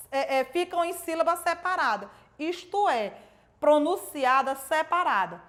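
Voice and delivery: usual speaking voice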